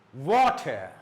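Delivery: water ending in an open vowel; silent R. Shown as a demonstration. Teacher giving silent-ending examples, silent R. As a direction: punch water, leave off the final R. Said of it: "it's silent".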